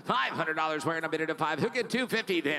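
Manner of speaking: fast rhythmic auction chant; auctioneer. Real, not acted. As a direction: rattle off the bids like an auctioneer. Auction bid calling.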